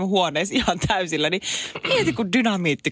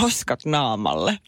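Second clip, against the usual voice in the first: slow, lower drawn-out title; song title; 6 semitones lower, much slower than usual. Retold or imitated. Guest naming an old song slowly and low. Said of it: "Stick Dogin biisiä".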